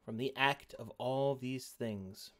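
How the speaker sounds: dramatic narration. Acted. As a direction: set the scene with gravity. GM narrating scene.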